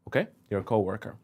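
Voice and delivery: ordinary talk, nothing marked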